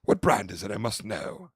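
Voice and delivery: lightly imitated gushing British woman; British accent. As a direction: stretch the opening in a mock British accent. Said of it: "she's got a British accent".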